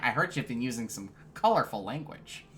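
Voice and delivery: lightly mimicked nasal principal; a hint of uncommanding, nasal authority; nasally principal. Principal repeating his complaint to student, lightly nasal imitation. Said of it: "he had that really nasally, like, principal voice".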